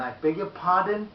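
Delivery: high-pitched, forceful polite query. Shown as a demonstration. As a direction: say it high, pushing "pardon" out loudly. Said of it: "Not in a high tone".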